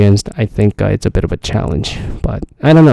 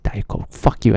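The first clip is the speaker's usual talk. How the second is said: muttered insult; 6 dB quieter than usual. Retold or imitated. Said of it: "And I was like".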